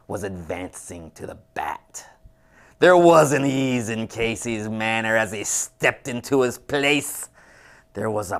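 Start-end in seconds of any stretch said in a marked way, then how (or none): 0.1-2.1 breathless stage whisper; hushed whisper. A narrator's reading. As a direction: drop to an unvoiced whisper. Dramatic hush before Casey arrives.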